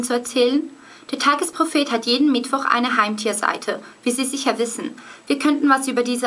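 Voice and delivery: reading aloud in German High German; brisk storytelling in German standard German; German High German accent. Shown as a demonstration. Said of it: "I'll read it in German first".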